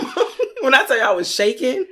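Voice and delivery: put-on high, shaky-sounding child voice; scared child. As a child waking her mom, high and frightened. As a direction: plead like a frightened kid.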